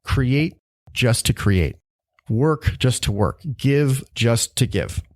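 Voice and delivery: very slow, deliberate phrases with pauses; inner voice. Retold or imitated. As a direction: let each short phrase land slowly, like a message heard within. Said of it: "this voice, frankly, in my mind just said".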